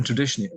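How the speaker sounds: traditionally leaned on a little; mild emphasis on traditionally as a caveat; stress on traditionally. Real, not acted. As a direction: give traditionally a light extra push. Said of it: "put the emphasis on the traditionally".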